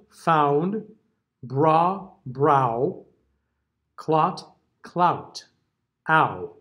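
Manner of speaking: pure ah then ow with the oo glide added late; careful listening pairs; ah versus ow pairs. Shown as a demonstration. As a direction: contrast the pure vowel with the diphthong. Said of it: "let's just listen to 'em".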